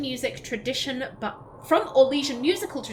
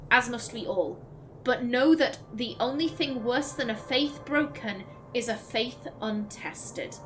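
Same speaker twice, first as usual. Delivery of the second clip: grave, measured recital; dramatic codex reading. Acted. Streamer voices a doubting believer's letter, solemn. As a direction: read it like a troubled believer's letter. Reads codex entry aloud.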